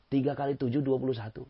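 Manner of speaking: a light hint of an insistent teacher. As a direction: state the right sum firmly.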